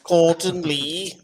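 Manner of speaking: slow Scouse accent. Shown as a demonstration. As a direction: say it the Liverpool way. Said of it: "Can you say that in a Scouse accent?".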